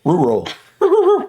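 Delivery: careful repeated tries at "rural"; practising "rural". Real, not acted. Retrying the word they can't say, labouring over "rural". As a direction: work the mouth round "rural", then retry it. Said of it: "I can't even say the word".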